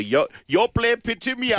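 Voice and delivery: high, odd put-on voice; old anti-ad impression. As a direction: mimic the old TV ad character. Quoting old footy anti-ad.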